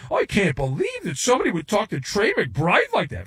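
mock outrage. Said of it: "dumb people are up in arms".

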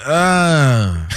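long drawn-out "ugh"; mock disgusted groan. Fan sours on the player's behavior, disgusted groan. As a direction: groan as if put off.

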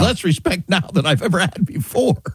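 drawn-out incredulous exclamation; retold scoffing reply, stretched for emphasis; emphatic mock outrage. People answering the host's question about government, mock outrage.

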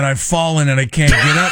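laughing quote. Shown as a demonstration. Host quotes the catchphrase laughing to cohost. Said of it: "in that club".

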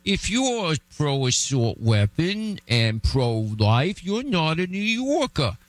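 slow, drawn-out mock politician's lecture voice; Andrew Cuomo impression. Host mocking a governor who shut out conservatives, slow mock lecture. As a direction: imitate a governor scolding conservatives. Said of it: "Just like Andrew Cuomo".

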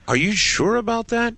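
high-pitched, disbelieving question; astonished, pitched right up; incredulous. Real, not acted. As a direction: challenge it in real disbelief. Host doubts the caller's wind report.

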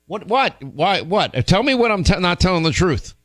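high, incredulous accusing; teasing outraged pitch; mock accusation. Real, not acted. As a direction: call him out, pitch up. Accusing James of lying.

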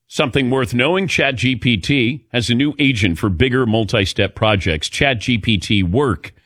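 measured radio sponsor read. Acted. Host introducing a sponsor to listeners, light ad-read delivery. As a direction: pitch the product smoothly, as a host.

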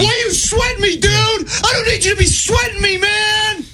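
very high mock yelling; high hammed-up shouting; mock scream. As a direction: screech it like the raging coworker. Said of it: "he's like, screaming".

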